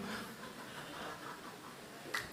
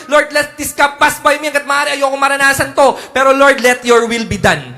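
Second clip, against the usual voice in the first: earnest prayer; 4 semitones higher, 5 dB louder than usual. Acted. Jesus prayer voiced.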